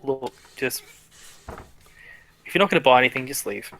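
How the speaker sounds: resigned, subdued brush-off; weary dismissal. Acted. Merchant caught cheating dismisses a customer, weary dismissal. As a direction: give up the sales act and send them away. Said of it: "He sighs and just says".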